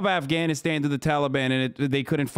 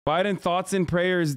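mocking; 4 semitones higher, slower than usual. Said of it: "Motherfucker said".

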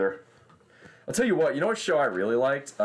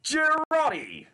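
drawn-out, much higher Australian bushman cry; Australian bushman call; much slower than usual. Retold or imitated. Streamer shouting as the Australian bushman sniper in an Australian accent. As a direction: bellow it slowly like the TF2 Australian sniper. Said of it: "the joke is he's the Australian bushman".

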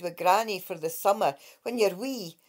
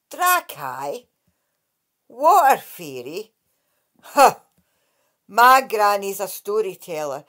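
a lightly voiced, sceptical lass, louder; scoffing girl; 5 dB louder than usual. Lightly voiced scoffing girl. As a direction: Kate mocking the water fairy's claim.

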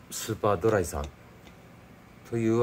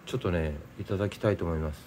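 usual speaking voice

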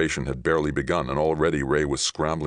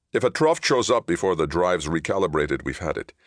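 higher, pressed start settling down; tense captain; 4 semitones higher, 3 dB louder than usual. Acted. Captain warns Johnny of attack, tense. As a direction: warn grimly, pitched up at first.

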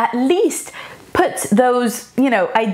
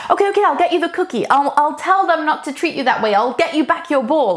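higher and rushed, scrambling to please; frantic fixing parent; 4 semitones higher than usual. Retold or imitated. Parent rushing to placate an upset child, fast and high. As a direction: hurry to fix it all for the upset child.

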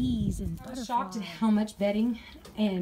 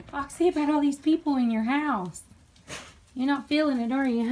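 higher sing-song pet voice; pet talk; 5 semitones higher than usual. Real, not acted. To Foxy the dog about the visitors, sing-song pet voice.

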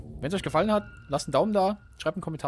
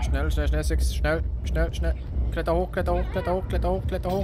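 urgent urging; 5 semitones higher than usual. Real, not acted. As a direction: push him on, hurry hurry. Urging character while chased.

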